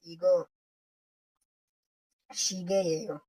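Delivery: "शीगे ये हो" with a falling answer tune. Shown as a demonstration. Teacher modeling the answer, falling tune. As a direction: settle down on the end like a statement. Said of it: "जब आपने जवाब देना है".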